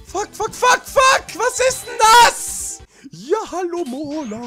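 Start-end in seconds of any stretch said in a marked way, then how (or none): 0.1-2.8 high shouted swearing; angry cursing. Real, not acted. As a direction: curse at the screen. Game frustration. (wütendes Fluchen)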